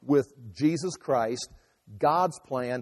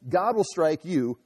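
slow, measured pronouncement falling low at the end; deliberate verdict, dropping in pitch; matter-of-fact statement; 3 semitones lower than usual. Acted. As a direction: state it as fact, not as an outburst. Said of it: "He's making a statement".

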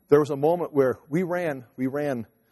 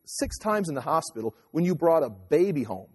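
teasing wife; 5 semitones higher than usual. Retold or imitated. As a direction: tease her, building up until you laugh. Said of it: "I says".

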